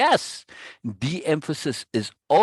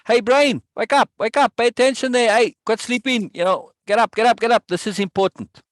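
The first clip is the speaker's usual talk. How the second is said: loud, high calls of wake up; waking the brain up; 6 semitones higher, 4 dB louder than usual. Retold or imitated. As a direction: rouse a sleeping brain, louder and higher. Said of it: "you're telling your brain".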